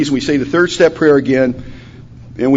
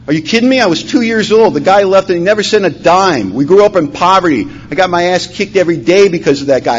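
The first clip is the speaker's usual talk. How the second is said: high, indignant rant, only mildly raised; retold yelling; 4 semitones higher than usual. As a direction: replay an outraged tirade at a sponsor. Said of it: "I'm yelling at my sponsor".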